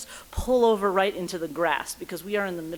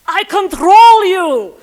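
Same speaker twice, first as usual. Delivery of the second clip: slow, booming shouted command; angry yell; 9 semitones higher, 16 dB louder, much slower than usual. Retold or imitated. Angry cop yells at driver through window. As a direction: roar it at her like a furious cop. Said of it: "and he yells".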